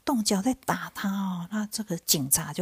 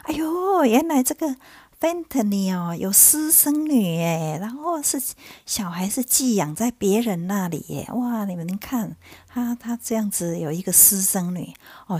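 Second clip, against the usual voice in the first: imitated mocking; 4 semitones higher than usual. Coworkers exposing a woman's secret child, imitated mockery. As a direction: act out workmates scoffing at her secret. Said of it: "就大家在那边嘲笑她说".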